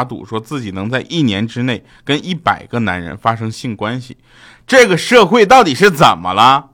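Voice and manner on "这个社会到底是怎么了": loud, high-pitched comic indignation; mock outrage. Comedian decrying a newspaper story, hammed-up outrage. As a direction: lament it loudly, hamming up the shock.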